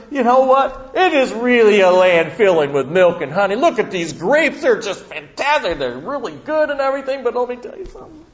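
hammed-up cowardly scouts building from bragging about grapes to begging to go home, high and loud by the end; mock terror, voice rising far above normal as the fear takes over; frightened spies. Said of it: "they said to them".

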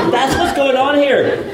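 ordinary talk, nothing marked

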